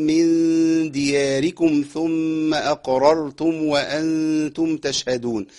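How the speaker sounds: slow, measured tajweed recitation; Quran recitation. Acted. Teacher recites the verse for the class. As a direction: recite it slowly, holding each sound.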